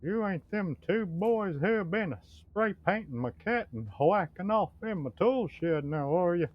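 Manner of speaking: put-on old neighbor scolding the two boys, loud and cranky; grumpy old neighbor. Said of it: "I can do the neighbor who".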